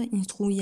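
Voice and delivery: "instruit" ending on a stressed I; "instruit" said Spanish-style, in-stru-I. Shown as a demonstration. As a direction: land on the last "i" sound of "instruit". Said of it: "accent sur le I".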